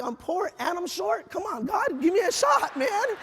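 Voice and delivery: rising to a high, exasperated plea; pleading with God. Retold or imitated. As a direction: start slow, then climb as you beg.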